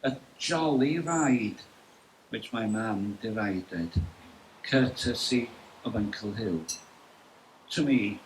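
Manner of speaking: measured poem recital with deliberate pauses; poetry reading. Acted. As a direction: read it as verse, lingering between lines. Reads own poem at launch.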